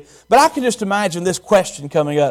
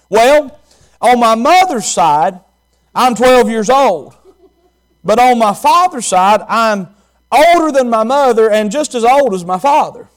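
Jesus answering; 3 semitones higher, 5 dB louder than usual. Acted. To the temple elders, a lightly voiced young Jesus. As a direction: answer the temple questioners with calm, steady pride. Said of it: "He could have accurately answered just like this".

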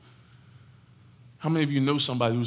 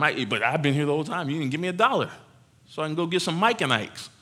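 modern churchgoer. Acted. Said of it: "how would that sound if it was us?".

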